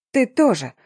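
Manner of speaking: a lightly voiced battle cry; shout. Polina bursting from the bushes at Denis, mild yell. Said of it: "заорала Полинка".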